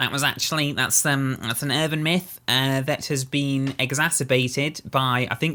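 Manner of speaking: put-on nasal character voice. Playing a character in a bit with a partner, in a nasal voice. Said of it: "I suddenly came out of the of the nasal voice".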